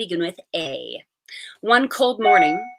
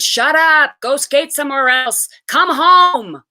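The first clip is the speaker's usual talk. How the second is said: shouted out a window, high and loud; a mother yelling down at the street; 6 semitones higher, 8 dB louder than usual. A narrator's reading. Mother calling kids in, shouting.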